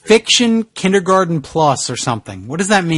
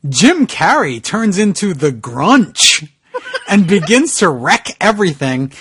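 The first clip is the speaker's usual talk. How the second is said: slow careful reading. Real, not acted. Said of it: "Okay, I'll try".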